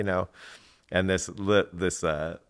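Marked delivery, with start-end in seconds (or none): none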